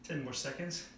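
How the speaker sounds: strained, breathing through the hold; holding a wall sit. Real, not acted. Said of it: "Try to control your breathing here".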